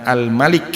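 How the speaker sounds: al-malik read ma-lik with a final i; al-malik, meaning king, a then i. Shown as a demonstration. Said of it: "kata ini bisa dibaca bermacam-macam".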